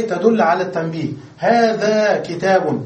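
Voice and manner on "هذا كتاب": هذا كتاب said slowly as a model phrase; teacher giving a slow example. Shown as a demonstration. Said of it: "نحن قلنا الهاء تدخل على الجميع".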